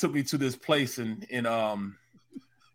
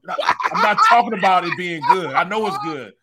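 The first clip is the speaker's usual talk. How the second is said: louder, higher exasperated scolding; retold scolding; 6 semitones higher, 7 dB louder than usual. Dad scolding son for eating his food, loud and exasperated. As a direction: tell him off, half laughing.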